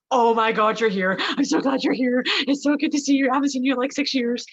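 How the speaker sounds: high, excited imitation of a delighted friend; gushing reunion. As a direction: gush out an overjoyed greeting. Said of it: "And she's like".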